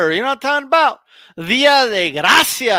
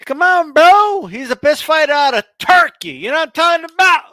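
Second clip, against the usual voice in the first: put-on raised protest at the old man; indignant bro protest; 5 semitones higher, 4 dB louder than usual. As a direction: push back loud at the partner. Defending the fighter.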